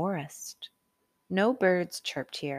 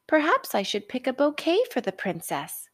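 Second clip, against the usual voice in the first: put-on boy musing; 7 semitones higher than usual. A narrator's reading. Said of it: "thought Jack".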